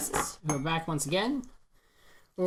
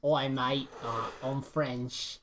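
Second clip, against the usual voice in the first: mock French accent that sounds British; joking Cockney-style take on French; fake French accent; 3 semitones lower, much slower than usual. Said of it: "French is like".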